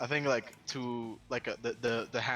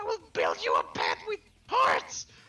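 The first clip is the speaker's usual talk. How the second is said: very high, loud, grateful scream. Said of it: "Vern will scream like".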